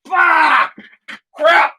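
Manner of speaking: just swallowed a bug. Real, not acted. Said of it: "I just swallowed a bug".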